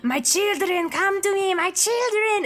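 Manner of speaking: put-on high, theatrical vampire calling his children; mad vampire. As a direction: ham up a crazed vampire summoning his brood. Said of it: "He is like".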